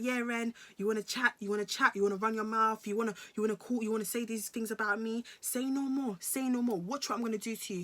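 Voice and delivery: imitating his taunts, pitched a little up; retold goading threat, needling questions; mock threatening. Boyfriend threatening her on a FaceTime call, retold threatening. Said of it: "he was making threats".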